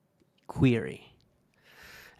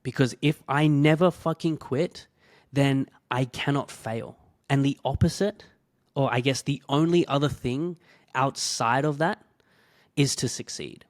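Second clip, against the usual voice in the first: louder, fired-up resolve; determined vow; 2 semitones higher, 5 dB louder than usual. Retold or imitated. Vowing to prove the hater wrong, loud and determined. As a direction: swear to prove them wrong. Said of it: "And I was just like".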